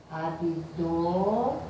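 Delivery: Abdomenes slowly, stressed on DO, ab-DÔ-me-nes; drawn-out Abdomenes with the stress on DO; slow abdômenes, stressed on the third-to-last syllable; proparoxytone form. Shown as a demonstration. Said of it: "transformei em proparoxítona".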